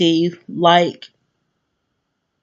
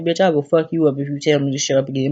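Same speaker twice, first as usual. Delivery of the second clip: imagined threat; 2 semitones lower, faster than usual. Retold or imitated. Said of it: "this is what I'm saying".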